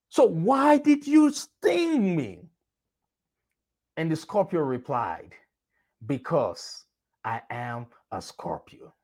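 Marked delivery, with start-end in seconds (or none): 0.1-2.5 slow, high, drawn-out plea; desperate frog. Acted. Frog asks the scorpion again. 6.1-8.9 low, soft, menacing answer; cold scorpion. Acted. Scorpion answers the frog coldly.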